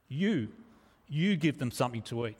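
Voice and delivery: "You" set apart, then said with weight again; emphatic "You", held alone before the sentence; stress on YOU. Acted. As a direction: lean on "you", pausing after the first one. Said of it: "it's, it's emphatic".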